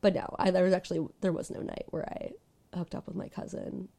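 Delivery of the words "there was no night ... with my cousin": hushed embarrassed whisper. Real, not acted. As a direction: whisper the confession. Confessing a cousin hookup, hushed.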